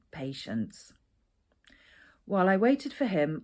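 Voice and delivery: steady, measured read-aloud of her own chapter; calm storytelling narration; memoir reading. Acted. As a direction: read it like an author at a book event, unhurried. Author reads her memoir chapter.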